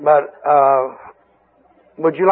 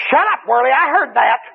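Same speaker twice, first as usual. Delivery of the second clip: higher, snarling demon retort; 8 semitones higher than usual. Retold or imitated. Demon across the church snapping at the praying preacher. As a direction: snap back like a demon caught out. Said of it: "that demon ... said".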